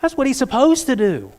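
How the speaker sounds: high, loud, slowed "come on" reply; exasperated retort. Retold or imitated. Coach tells the upset player the obvious, exasperated and loud. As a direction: spell the obvious out to her, exasperated.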